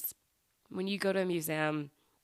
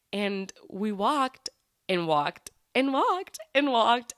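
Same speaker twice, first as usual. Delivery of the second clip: drawn-out repetition; 4 semitones higher, 4 dB louder, much slower than usual. Retold or imitated. Endless walk across Edinburgh.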